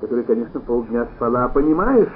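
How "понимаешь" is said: loud, slow, high indignation; a husband lecturing his yawning wife; indignant outburst. A narrator's reading. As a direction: drive the word home, outraged. Angry husband demands dinner.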